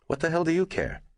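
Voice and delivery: high, angry demand; angry outburst. A narrator's reading. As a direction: hurl it back in irritation. Neenan lashes out.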